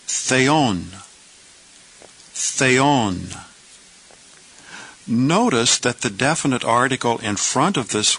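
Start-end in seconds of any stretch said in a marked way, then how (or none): 0.1-3.3 "theon" said as thay-on, two clear syllables; Greek pronunciation. Shown as a demonstration. Teacher modelling "theon" for students, slow and clear. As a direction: sound out "theon" carefully, thay-on. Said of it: "We pronounce this word".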